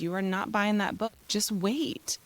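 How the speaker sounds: mildly stern retold order; firm mother, voice kept level; kinda stern. Mother tells son to wait, kinda stern. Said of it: "then I got kinda stern".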